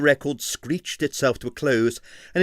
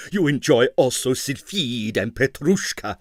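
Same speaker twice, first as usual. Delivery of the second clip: cutting; 2 semitones higher, 3 dB louder than usual. Acted. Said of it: "said Navashno cuttingly".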